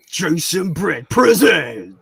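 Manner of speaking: slow drawn-out trailer voice, breaking into a laugh; a hint of movie trailer man, very slow, with a laugh. Shown as a demonstration. Streamer tries trailer man on his own name, slow, laughing. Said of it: "I've tried to do trailer man voice".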